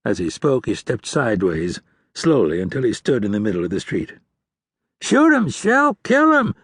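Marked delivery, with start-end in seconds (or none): 5.0-6.5 high frantic shout, much higher and louder. A narrator's reading. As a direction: scream it to your partner. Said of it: "Lang shouted".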